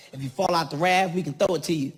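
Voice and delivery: lightly voiced guide giving instructions; a hint of a chirpy tour guide; mocking the rafting guide. Guide to the rafters, a light mock guide voice. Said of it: "She talking about if I'm at eight feet".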